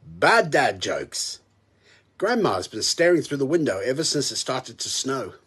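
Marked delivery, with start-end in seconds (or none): 0.1-1.4 drawn-out, deadpan intro call; slow title announcement. Acted. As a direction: announce it slowly like a show title.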